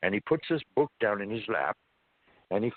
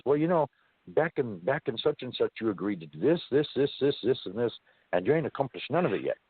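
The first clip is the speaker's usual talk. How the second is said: entity's voice; 4 semitones higher than usual. Retold or imitated. Entity voiced in retold story.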